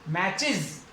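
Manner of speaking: मैचेस ending in iz, matchiz; मैचेस with a short iz at the end; correct pronunciation. Shown as a demonstration. Teacher gives the correct reading to the class. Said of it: "मैचेस नहीं".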